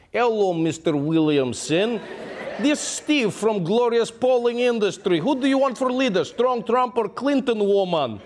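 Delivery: slow, lightly put-on Russian accent; deliberate phone-call Russian accent. Fake Russian pollster cold-calling an American voter, Russian accent.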